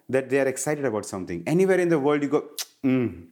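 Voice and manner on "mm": savoring mm of taste; yummy mm. Shown as a demonstration. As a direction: hum like tasting something yummy. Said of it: "It means it's yummy".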